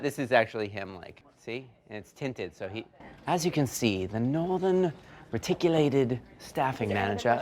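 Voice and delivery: nature documentary. Pretend. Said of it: "like seeing an animal in the wild".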